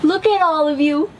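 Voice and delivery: mama duck gushing over her babies; joyful mama duck. A narrator's reading. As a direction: beam over your new chicks. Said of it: "said the mama duck, filled with joy".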